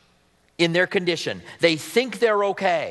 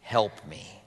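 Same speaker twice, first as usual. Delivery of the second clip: softer, slow, contrite prayer; humble prayer; 7 semitones lower, 6 dB quieter, much slower than usual. Shown as a demonstration. Pastor modelling a soft, contrite bedtime prayer. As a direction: pray it quietly and slowly. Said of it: "Just say".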